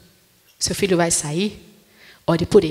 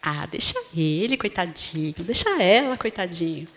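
1 pitying mother; 3 semitones lower than usual. Retold or imitated. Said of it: "o que que a mãe faz?".

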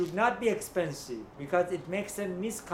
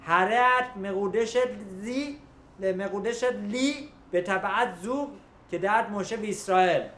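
quick, louder Hebrew recitation of the wedding formula; wedding vow recited; 2 semitones higher, much faster than usual. Shown as a demonstration. Rabbi demonstrating the groom's vow to his class, fast recitation. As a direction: rattle off the ring blessing like a well-worn formula. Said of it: "needs to say out loud".

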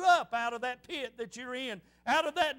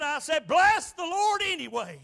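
louder, emphatic declaration; retold defiant praise; 3 semitones higher, 6 dB louder than usual. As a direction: proclaim it despite being hushed. Retold defiant praise after being hushed.

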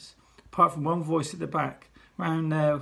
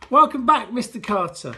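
unenthusiastic chorus; 6 semitones higher, 9 dB louder than usual. Acted. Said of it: "not very together or enthusiastic way".

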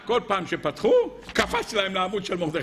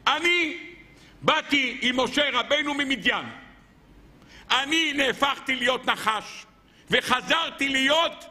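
lightly voiced staff, higher and deliberate; staff speaking; 6 semitones higher than usual. Moses' staff recounts its own story, proudly declaimed. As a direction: proclaim it slowly, lifted in pitch, as the talking staff. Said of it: "אמר המטה".

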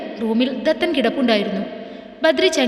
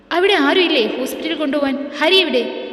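panicked; 3 semitones higher than usual. Acted. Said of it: "വിപ്രാളത്തോടെ അവൻ ചോദിച്ചു".

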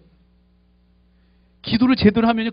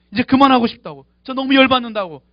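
fed up; 6 semitones higher, 5 dB louder than usual. Retold or imitated. 모세가 얼마나 화가 나는지 느껴지시죠.

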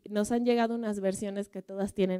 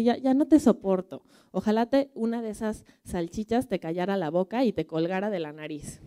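louder, exasperated husband snapping back; he has had enough of her nagging; fed-up outburst; 4 dB louder than usual. Acted. Marido harto le contesta a la esposa. (marido harto, estallido fuerte)

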